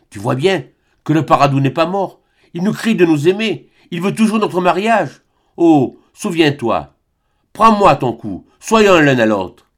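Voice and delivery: imploring. Acted. Albine imploring Serge.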